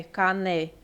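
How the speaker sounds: "cané" with the N joined to the E and an open A; syllable demo. Shown as a demonstration. Teacher showing students how "canela" splits, syllable demo. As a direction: say "cané", the N starting the next syllable. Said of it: "você escuta o som do N junto com o E".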